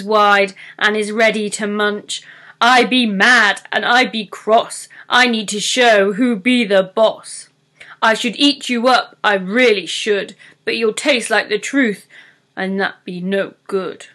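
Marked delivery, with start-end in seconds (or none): 2.6-14.1 lightly voiced troll, cross and grumbling.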